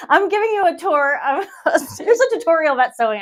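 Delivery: laughing through words. Real, not acted. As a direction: laugh while talking. Laughing at her own tutorial.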